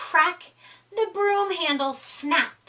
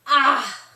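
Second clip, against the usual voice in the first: sigh; 5 dB louder than usual. A narrator's reading. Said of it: "Splat sighed".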